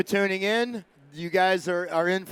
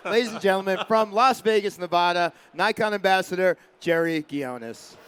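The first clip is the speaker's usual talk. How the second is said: announcer intro. Acted. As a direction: announce him like a ring MC. Host introducing the next speaker.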